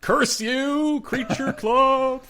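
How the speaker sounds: high, loud cartoon villain shaking a fist; hammed-up evil curse through laughter; hammy high villain cry, laughing; mock villain curse.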